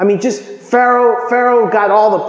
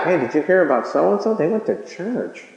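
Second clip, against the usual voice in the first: gossip; 3 semitones lower, 5 dB quieter than usual. Retold or imitated. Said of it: "walk around behind their back".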